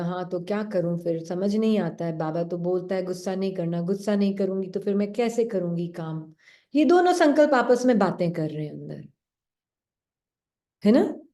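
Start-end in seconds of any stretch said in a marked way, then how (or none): 0.0-6.3 lower, confused inner voice; helpless second thought. Retold or imitated. The second thought wondering how to work without anger, lower voice. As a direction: sound lost and unsure. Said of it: "फिर दूसरा संकल्प बोलेगा".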